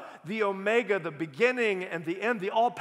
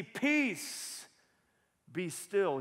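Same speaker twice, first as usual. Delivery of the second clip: commanding rebuke; much slower than usual. Acted. Jesus rebukes the sea.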